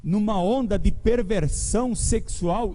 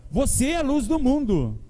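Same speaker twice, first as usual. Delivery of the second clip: congratulating; 5 semitones higher than usual. Shown as a demonstration. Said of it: "Fala, pode dizer".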